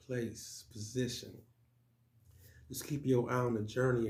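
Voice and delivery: measured poetry recital with pauses after each line; spoken-word poem. Acted. Poet performing own poem for viewers, spoken-word delivery. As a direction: recite it in short motivational phrases, punching the openings.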